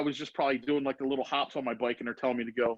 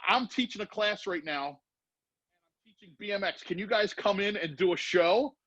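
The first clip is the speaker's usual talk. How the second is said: higher, eager rush of asking; excited plea; 4 semitones higher than usual. Retold or imitated. Student begging pros to do a show, excited and higher. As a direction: pitch it like an eager kid begging.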